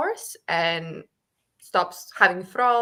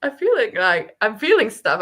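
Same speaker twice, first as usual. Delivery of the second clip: overwhelmed gush; 3 semitones higher, 4 dB louder than usual. Retold or imitated. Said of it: "I was like".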